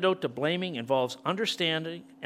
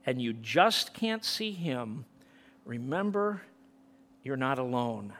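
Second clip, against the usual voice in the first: song lyrics read out with feeling; reciting lyrics. Real, not acted. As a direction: recite the words like a prayer. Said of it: "listen to this song".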